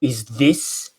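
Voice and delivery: hushed, slow, spooky investigator; paranormal investigator voice. Retold or imitated. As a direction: ask it like a ghost-hunting show host. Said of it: "you sound like a paranormal activity investigator".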